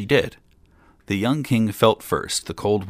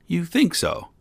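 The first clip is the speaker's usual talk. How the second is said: cocky; 11 semitones higher than usual. A narrator's reading. Boy mocking old man.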